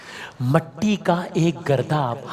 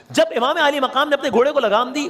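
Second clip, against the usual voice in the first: rising suspense; 10 semitones higher than usual. A narrator's reading. Dramatic buildup of the event.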